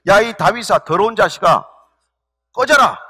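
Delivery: mock-angry insults hurled at a king; retold cursing. Preacher voicing a man hurling abuse at David, retold cursing. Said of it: "저주를 퍼붓습니다".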